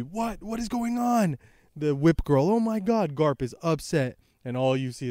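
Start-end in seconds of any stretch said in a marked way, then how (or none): 0.0-1.4 mock shock. Kobe sees Hibari frozen. 2.5-3.1 mock gasp of shock. Whip girl reacts to freezing.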